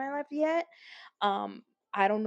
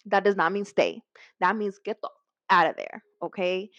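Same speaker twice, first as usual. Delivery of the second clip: louder, emphatic warning; louder insistent advice to viewers; emphatic insistence; 6 dB louder than usual. Real, not acted. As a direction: drive the point home hard. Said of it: "emphatic advice to viewers".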